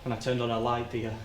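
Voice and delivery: low, soft, halting memory; reliving it in small fragments, with long pauses; quietly dreading each detail; hushed, haunted recollection. Acted. Haltingly recalls finding the victim.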